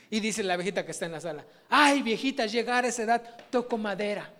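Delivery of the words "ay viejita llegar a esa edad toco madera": put-on pitying old woman. Sister comments pityingly.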